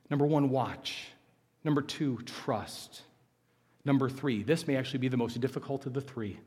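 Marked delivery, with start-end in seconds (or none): 2.2-3.0 whispered trust; whispered word. Real, not acted. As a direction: breathe trust out.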